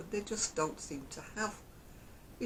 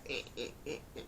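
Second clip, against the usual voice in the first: low, soft effortful grunts; short repeated little strains; mock straining grunts; 5 semitones lower, 9 dB quieter, much faster than usual. Acting out climbing out of the cuddly, soft grunts.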